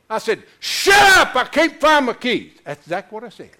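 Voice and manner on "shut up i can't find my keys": high, loud burst of panic; panicked shout. Retold or imitated. Golfer yelling at buddies about lost keys, panicked. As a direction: snap at your friends in a hammed-up panic. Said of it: "I, I'm panicked".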